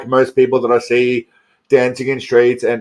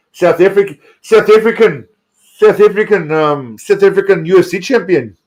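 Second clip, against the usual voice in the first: excited; 5 semitones higher than usual. Real, not acted. Hyping the new UFC champion.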